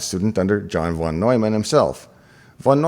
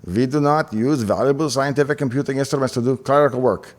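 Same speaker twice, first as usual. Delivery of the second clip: a light, playful put-on Hungarian accent; lightly mock a stern Hungarian scolding in a Hungarian accent; von Neumann Hungarian accent; 3 semitones higher than usual. Professor scolding his grad student, a light mock Hungarian accent. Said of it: "that's my German Hungarian accent".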